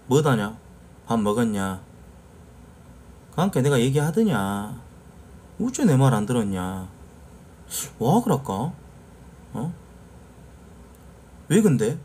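curt, blunt South Jeolla dialect; strong Jeonnam dialect. Shown as a demonstration. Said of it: "이런 느낌이죠".

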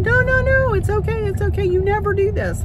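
squeaky polite no-no-no, waving it away; nail tech's protest. Retold or imitated. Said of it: "And she said".

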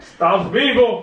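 loud, slow, drawn-out cheer; mock cheer. Partner cheering at the moving baby on the scan, loud and slow. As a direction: hail the baby like a miracle.

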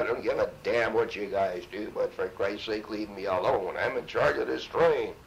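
irritated officer losing patience; fed-up captain. Retold or imitated. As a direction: snap at the troublemakers. Harassed captain quoted.

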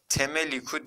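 "Temeliku" with initial T and extra E; wrong reading. Shown as a demonstration. Teacher rules out an option, showing the wrong reading. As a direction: open with T and add E after M in "Temeliku". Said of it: "diye de okumadık".

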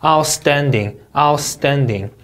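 'outstanding' with the beat on STAND; second-syllable stress. Shown as a demonstration. Teacher drilling word stress, second syllable strong. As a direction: punch STAND in 'outstanding', falling after. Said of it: "이음절 강세".

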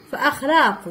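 فأخلاق with a glottal stop after fa; hamza kept. Shown as a demonstration. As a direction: keep the hamza inside فأخلاق. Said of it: "وكذلك إذا مورا الفاء".

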